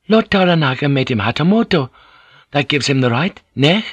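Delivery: polite interpreter standing her ground; Mariko, respectfully countering. Acted. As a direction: make the case, then seek agreement. Voices Mariko countering her lord.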